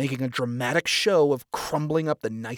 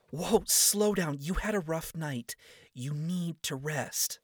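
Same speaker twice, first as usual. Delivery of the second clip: a hint of a higher, caring young woman, slow; Charlie, gently urging; 4 semitones higher, slower than usual. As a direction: ease him back down, lightly voiced. Charlie urges him to rest.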